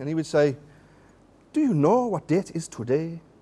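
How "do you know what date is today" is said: put-on Nigerian accent. Speaker recalls what Tony would always ask: imitating Tony's Nigerian accent. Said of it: "I'm going to try my Nigerian accent here".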